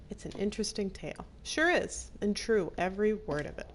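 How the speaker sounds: storyteller voice, lightly voiced waitress; fireside storytelling. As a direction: spin the tale for the fire. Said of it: "get my storytelling voice ready".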